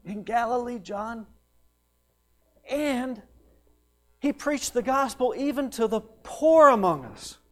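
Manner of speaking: hushed awe building to high, loud proclamation; awed testimony. Acted. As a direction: eyewitness wonder rising to a ringing finish. Eyewitnesses report miracles to John.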